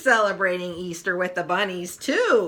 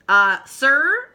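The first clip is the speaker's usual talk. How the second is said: voiced Marcy; 6 semitones higher, 7 dB louder than usual. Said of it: "Marcy says after a while".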